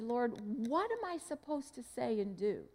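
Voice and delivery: soft, humble prayer to the Lord; quiet prayer. Retold or imitated. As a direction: murmur it as a private prayer.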